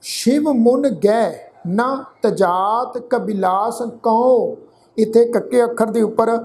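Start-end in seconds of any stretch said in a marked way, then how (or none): 0.0-4.6 slow, measured Gurbani reading; scripture recitation. Shown as a demonstration. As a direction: recite line by line with drawn-out syllables and pauses.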